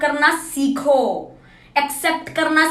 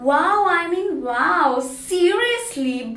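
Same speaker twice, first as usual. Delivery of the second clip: mocking critics; 5 dB quieter, much slower than usual. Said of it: "so-called people will tell me".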